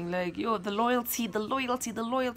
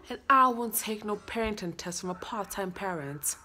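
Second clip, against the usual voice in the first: put-on rehearsed lines in a British accent. Learning lines for viewers to judge, British accent. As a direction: say it like a Brit running lines. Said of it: "I have to do a British accent".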